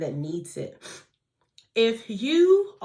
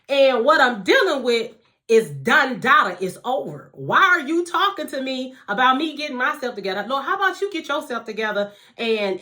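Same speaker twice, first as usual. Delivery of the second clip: sassy attitude; 4 dB louder than usual. Retold or imitated. Complaining to God on his throne, sassy rising rant. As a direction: retell your own cheeky rant at God, escalating. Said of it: "That was my attitude".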